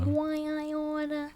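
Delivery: high, slow New York "Why I oughta" with a long aw; New York gangster, drawn out; New York tough guy. Shown as a demonstration. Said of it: "You're pretty good at that".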